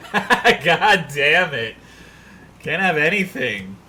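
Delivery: slow, loud laughing groan; laughing exasperation. Real, not acted. Frustrated at chat teasing.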